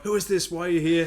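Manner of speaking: high, loud alarmed dog; barking dog voice. Retold or imitated. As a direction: play the dog yelling at the door. Voicing the barking dog Harvey.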